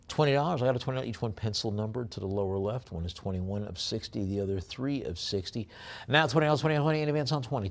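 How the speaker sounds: rapid-fire auction call; auction bid calling. Acted. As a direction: rattle off the bids like a live auctioneer.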